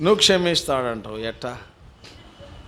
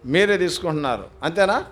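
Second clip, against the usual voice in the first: ordinary talk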